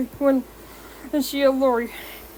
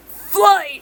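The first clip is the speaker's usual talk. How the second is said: sudden shout; 7 semitones higher, 5 dB louder than usual. A narrator's reading. Sudden outburst after cough.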